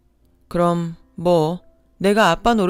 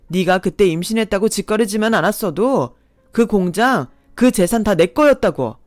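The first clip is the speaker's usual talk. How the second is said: growing anger; 3 dB louder than usual. Acted. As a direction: sneer building to a loud accusing yell. Ex blames her, grows heated.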